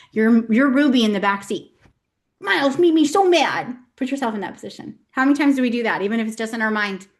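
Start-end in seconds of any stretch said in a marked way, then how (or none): 2.4-3.7 high, loud, drawn-out mock whine of an angry kid; toddler temper tantrum. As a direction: imitate a little girl's tantrum from the back seat. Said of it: "throw a temper tantrum".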